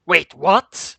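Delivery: loud startled wait, what; shocked. A narrator's reading. Shocked at kill order.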